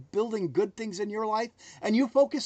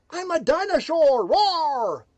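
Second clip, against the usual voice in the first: dinosaur voice; 5 semitones higher, 5 dB louder, slower than usual. Pretend. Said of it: "just tell yourself that".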